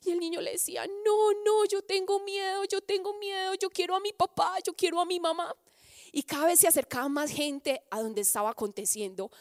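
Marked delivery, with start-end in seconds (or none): 0.9-5.6 put-on frightened child. Frightened boy refuses to jump.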